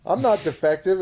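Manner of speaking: high, pleading mock robot girl. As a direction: beg not to be scrapped, hammed up. Robot pleading in retold trailer.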